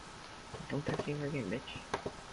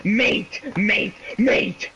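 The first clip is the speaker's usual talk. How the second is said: sudden raised yell, pitched up; 4 semitones higher, much slower than usual. Real, not acted. Blurting at a friend mid-chat, yelled. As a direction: yell each word separately, higher. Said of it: "I fucking yelled at mate".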